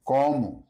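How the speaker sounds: Como said comu; final o as u. Shown as a demonstration. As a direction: end Como on a u. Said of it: "Unstressed O often sounds closer to a U sound".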